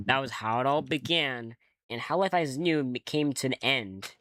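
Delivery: measured, lightly dramatic game narration; story narration. Acted. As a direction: tell it like an unfolding strange dream. Reads game monologue aloud.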